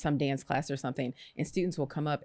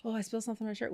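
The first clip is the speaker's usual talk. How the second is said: high, softer sulky reply; mock sulky answer; 6 semitones higher, 6 dB quieter, much faster than usual. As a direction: sulk it out to her husband. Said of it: "I was like".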